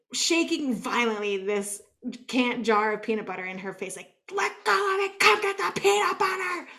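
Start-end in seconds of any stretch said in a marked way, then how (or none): 4.3-6.7 higher, strained pleading command; half-mock desperate plea at the dog; freaking out. Shaking the jar at the dog, desperate pleading. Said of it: "Like, freaking out".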